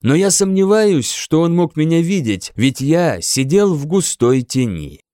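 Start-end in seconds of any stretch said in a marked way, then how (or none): none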